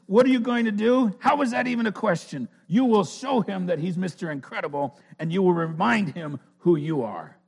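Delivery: a high commanding little woman, then easing off; Edna. Retold or imitated. Edna commanding Elastigirl, high and loud. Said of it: "She says".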